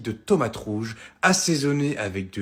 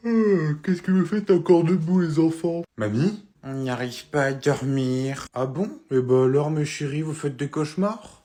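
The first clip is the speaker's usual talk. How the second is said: grandma voice. Acted. Grandma catches kids up.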